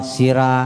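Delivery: "sira" with an open a ending; light ra vowel. Shown as a demonstration. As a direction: say "sira" with an unrounded ra. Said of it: "Belum waktunya kita baca sira".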